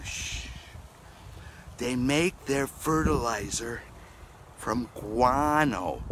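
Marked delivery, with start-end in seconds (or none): 0.0-0.5 shh. Acted. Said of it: "I have a secret to tell you".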